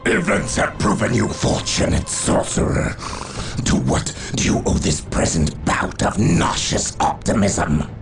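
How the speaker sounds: harsh, rasping sarcasm; scornful villain lord. Acted. Dark lord rebukes his sorcerer's optimism, scornful. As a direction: throw the sorcerer's words back with contempt.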